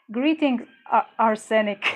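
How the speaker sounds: bright greeting. Real, not acted. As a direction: call out a cheery welcome. Welcoming a chat viewer.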